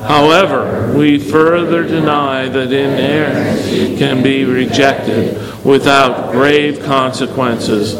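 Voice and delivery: measured congregational recitation; evenly phrased creed reading; reciting together. Real, not acted. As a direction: lead the room in reciting a formal denial. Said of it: "Please recite with me".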